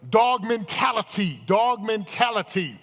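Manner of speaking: loud, high, drawn-out battle cry; rallying slogan. Real, not acted. Coach rallies the audience on dog mentality, rousing shout. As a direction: belt it out slowly to fire up the room.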